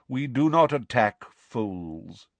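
slow, mildly mournful pronouncement; slow, doleful voice. Acted. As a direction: say it slowly and gloomily. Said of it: "said a slow, doleful voice".

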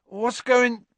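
high, sudden startled cry; jolted awake, blurt it out high; startled yelp. Acted. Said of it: "Ron awoke with a yelp".

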